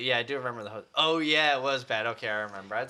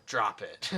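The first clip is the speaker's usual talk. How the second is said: lower-pitched "Drop it" with a falling end; different inflection; 4 semitones lower than usual. Shown as a demonstration. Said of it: "Do a different inflection".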